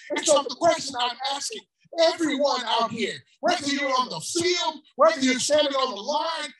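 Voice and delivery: rising, shouted call to the crowd; preaching shout. Real, not acted. Preacher calling out to the crowd in the park, shouting. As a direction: lift it up and call out to everyone.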